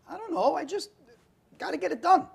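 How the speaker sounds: mock-exasperated teen protest; exasperated pleading. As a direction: insist you just had to get it done. Retold pleading with his father.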